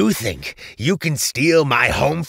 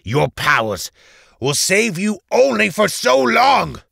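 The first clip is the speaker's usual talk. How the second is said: loud, vengeful villain rant; cursing and screaming; 7 semitones higher, 6 dB louder than usual. A narrator's reading. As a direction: swear revenge, rising to a high scream. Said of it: "Valentus proceeded to curse and scream".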